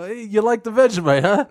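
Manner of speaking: imagined Australian guy. Pretend. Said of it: "he would be the guy".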